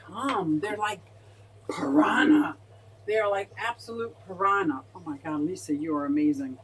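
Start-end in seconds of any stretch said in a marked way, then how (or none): 1.7-2.6 whispered. Real, not acted. Showing fish to viewers.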